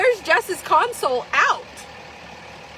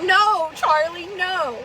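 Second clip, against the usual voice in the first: slow scolding; slower than usual. Retold or imitated. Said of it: "we're like".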